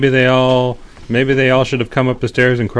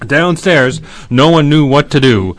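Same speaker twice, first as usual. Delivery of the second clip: story narration; 4 semitones higher than usual. A narrator's reading. Telling kids how Mortimer's night ends, animated narration. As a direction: wind the tale down to sleep.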